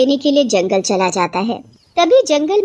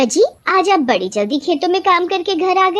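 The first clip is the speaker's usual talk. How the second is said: higher-pitched questioning wife; surprised wife; 8 semitones higher than usual. Acted. Wife finds her husband home early from the fields, surprised. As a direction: ask with mild surprise.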